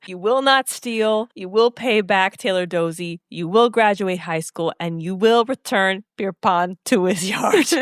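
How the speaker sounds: slow, firm laying down of rules; a strict uncle setting rules; stern orders. Retold or imitated. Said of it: "And he goes".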